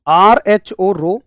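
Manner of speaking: आर, एच, ओ spelt very slowly, then रो; drawn-out letters of आर एच ओ, landing on रो; spelling out rho. Shown as a demonstration. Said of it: "इसको बोल रहा हूं मैं रो".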